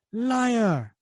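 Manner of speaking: high angry shout; furious cry of liar; angry outburst. Acted. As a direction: snap it out in a rage. Zemo strikes Cap in rage.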